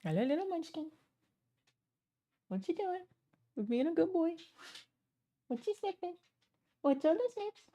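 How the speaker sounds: high, soft cooing pet voice. Real, not acted. Owner cooing to her dog Banjo, high baby talk. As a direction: coo up high at the puppy.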